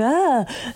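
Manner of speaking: light scared yelp; imitating her own scared yell; mild yell. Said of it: "That's basically how I sound when I yell".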